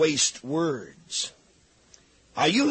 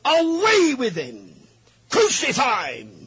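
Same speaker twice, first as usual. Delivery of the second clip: slow, much higher cry of "Away"; mob yell; 6 semitones higher, slower than usual. Acted. The crowd yelling at Pilate to crucify Jesus, high slow yell. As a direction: scream "Away with him!" up high and drawn out. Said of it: "they cried out".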